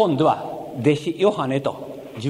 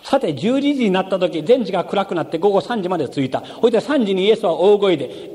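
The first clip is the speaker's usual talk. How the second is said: scripture reading; 3 semitones higher than usual. Acted. Reads Mark aloud in sermon.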